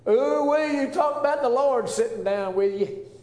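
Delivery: high and loud with holy delight; joyful exclamation. Real, not acted. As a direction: cry it out in rapture. Preacher exults over the meal.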